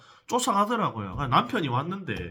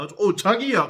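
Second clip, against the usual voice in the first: retold call out; 7 semitones higher, 7 dB louder, much slower than usual. Wife calling after husband.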